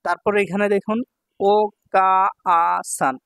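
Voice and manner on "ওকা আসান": ওকা আসান drawn out very slowly; slow model word. Shown as a demonstration. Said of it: "teacher models word slowly".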